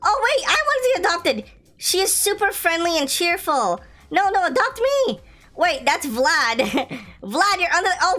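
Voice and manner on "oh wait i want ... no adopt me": much higher, pleading; eager begging. Acted. Pet pleading with Granny to be adopted, high. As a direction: beg to be picked.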